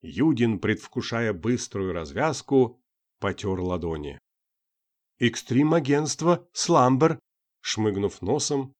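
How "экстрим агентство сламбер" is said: high, slow, frightened. A narrator's reading. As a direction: say it timidly, afraid. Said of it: "испуганно добавила". (испуганно, высоким голосом)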